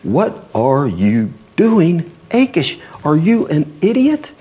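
high, scornful, drawn-out questioning; mocking Philistine lords. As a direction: scold Achish like he's a fool. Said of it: "they're like".

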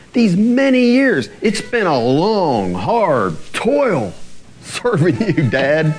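slow, heavy, worn-out grievance; resentful son. Retold or imitated. Elder son complaining to his father, weary resentment. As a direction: sigh out years of long hard toil. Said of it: "And listen to his words".

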